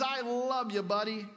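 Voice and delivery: hearty, offhand "I love you, buddy"; a pal clapping a friend's shoulder; casual buddy love. Shown as a demonstration. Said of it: "a word that basically means".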